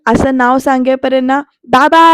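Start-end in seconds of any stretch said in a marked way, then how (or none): 1.7-2.0 loud cry of baba; retold scream. Digu mama screams for his father from inside. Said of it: "असा जोरात किंचाळी मारलेला आवाज".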